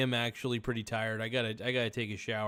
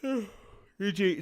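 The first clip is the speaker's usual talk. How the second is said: words stretched by a yawn; 9 semitones higher, 3 dB louder than usual. Real, not acted. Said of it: "sorry, I'm yawning".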